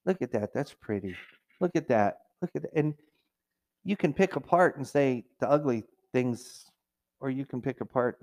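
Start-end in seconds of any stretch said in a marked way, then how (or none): 0.0-2.7 murmured wonder; quiet admiring. Retold or imitated. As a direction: softly marvel at the view. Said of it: "looking and saying".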